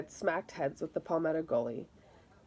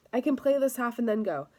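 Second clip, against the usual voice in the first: higher and a bit louder, still arguing; pleading protest; 5 semitones higher, 4 dB louder than usual. Acted. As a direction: bargain hard with the coach. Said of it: "Victor continued to protest".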